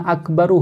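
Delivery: अकबरु with a short "u" after the r; voiced final vowel. Shown as a demonstration. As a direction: say अकबरु with its ending "ru" sounded. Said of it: "रा को आप साकिन कर दीजिए". (अकबरु के आख़िर में "रु" बोलकर)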